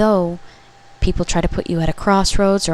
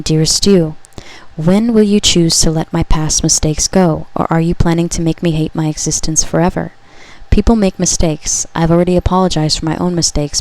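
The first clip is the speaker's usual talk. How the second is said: louder, solemn message to the listener; channeled message reading; 4 dB louder than usual. Acted. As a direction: read it as a loving prophecy. Reads message from someone.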